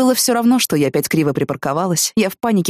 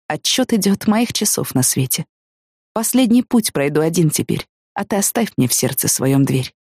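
poem reading. Acted. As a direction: read it out gravely, line by line.

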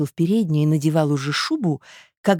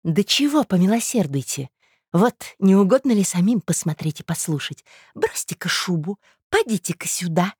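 higher-pitched, impatient summons; sharp-tongued tattling woman; 5 semitones higher than usual. Acted. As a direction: order him to come and listen.

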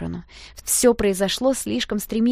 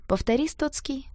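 demanding; 6 semitones higher than usual. A narrator's reading. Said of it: "потребовал клоун".

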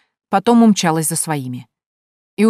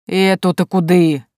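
slow, drawn-out grumble, louder; indignant drawl; 5 dB louder, slower than usual. A narrator's reading. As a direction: drag it out, put out. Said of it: "возмущённо протянул". (возмущённо протянул, медленно)

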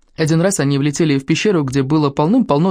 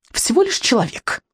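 high dragon voice, falling at the end; dismissive little dragon; 8 semitones higher than usual. Acted. Dragon reports a mere human, high and dismissive. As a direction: toss it off in a high creature voice.

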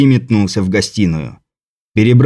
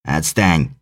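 low, soft, demanding leprechaun; 6 semitones lower, 5 dB quieter than usual. Acted. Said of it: "потребовал альбинос".

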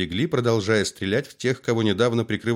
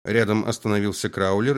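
ordinary delivery

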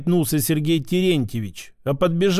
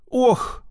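higher-pitched groan of confusion; bewildered groan; 7 semitones higher than usual. A narrator's reading. Shopkeeper yanked onto his back, groaning in bewilderment. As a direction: let out a dazed little moan. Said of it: "растерянно простонал лавочник".

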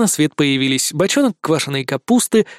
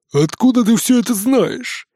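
higher, lightly voiced piglet, probing; suspicious question; 7 semitones higher than usual. A narrator's reading. Piglet questioning the mouse, mildly suspicious. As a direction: narrow in on the mouse with doubt. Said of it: "подозрительно прищурился Жорик".

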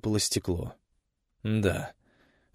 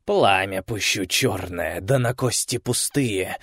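muttering witch; slower than usual. Acted. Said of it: "забормотала она".

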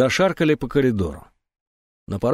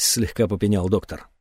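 ordinary delivery, nothing marked

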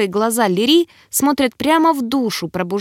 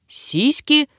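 higher, gleeful exclamation without real shouting; gleeful mock yell; 6 semitones higher than usual. A narrator's reading. Creature ogles the girl, gleeful mock yell. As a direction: blurt it out joyfully. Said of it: "радостно заорал мелкий извращенец".

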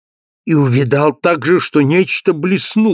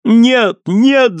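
high, loud terrified no; desperate scream; 8 semitones higher, 4 dB louder than usual. A narrator's reading. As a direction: scream it in panic. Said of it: "закричала Люсиль". (отчаянный громкий крик, голос выше)

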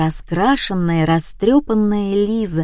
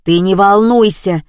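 shouting; 5 dB louder than usual. Acted. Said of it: "закричал другой голос".

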